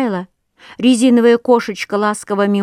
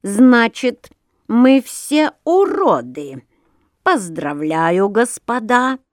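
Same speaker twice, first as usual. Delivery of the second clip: loud sarcastic; 2 semitones higher, slower than usual. Acted. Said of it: "сказал очень громко".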